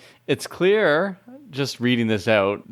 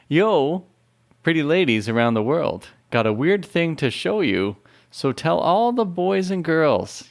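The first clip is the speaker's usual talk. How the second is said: prim, careful teacher reading; English teacher voice; 6 semitones higher than usual. Shown as a demonstration. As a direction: read it like a strict English teacher. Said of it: "I'm just gonna go English teacher voice".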